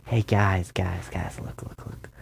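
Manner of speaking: calling, then dropping to a whisper; fading to whisper. Acted. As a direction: start normal, fade into a whisper. Voices himself in a story.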